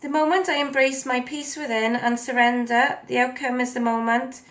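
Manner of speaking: stiff, mechanical reading; robot voice. Real, not acted. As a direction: read it like a robot, no feeling. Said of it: "I'm speaking like a robot today".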